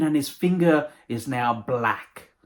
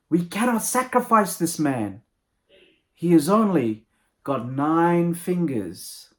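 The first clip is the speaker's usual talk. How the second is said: higher, drawn-out pronouncement; proclaiming priest; 4 semitones higher, slower than usual. Acted. Priest stops the villagers' sacrifice, slow high proclamation. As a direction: announce it slowly to the whole village, voice raised in pitch. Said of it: "the priest yells out".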